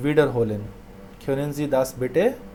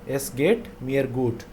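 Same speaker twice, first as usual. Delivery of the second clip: slow; slower than usual. Shown as a demonstration.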